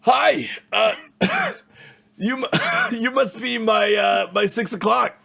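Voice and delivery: high, loud, eager innkeeper voice; overly friendly desk clerk, straining upward; cheery hotel clerk. Acted. GM plays Teddy the clerk.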